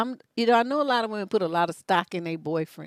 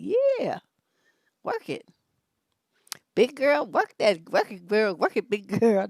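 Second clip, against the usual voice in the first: cheering Aries man; 2 semitones higher than usual. Retold or imitated. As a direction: hype her up like a cheerleader lover. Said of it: "They gonna be like".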